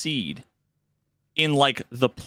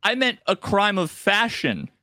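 higher, smug mock correction; sly NPC pun; 3 semitones higher than usual. Quest giver insulting the outfit, hammed-up. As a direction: land the pun with a smirk. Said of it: "And then he goes".

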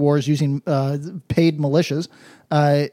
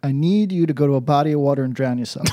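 shouting; 4 semitones lower, faster than usual. Acted. Shouted punchline.

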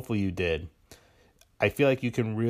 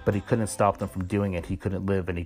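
steady audiobook reading; story narration. Acted. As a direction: read the passage like a novel. Reads novel excerpt aloud.

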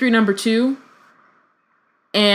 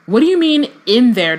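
higher, louder sharp demand; 4 semitones higher, 5 dB louder than usual. Acted. Hermione demanding Harry explain the voices, sharp and louder. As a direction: press him for an answer. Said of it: "demanded Hermione".

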